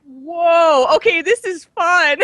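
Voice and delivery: loud, high retold whoop breaking into laughter; high-pitched amused outburst; excited reaction. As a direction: relive the thrill, laughing. Retelling reaction to the funny song.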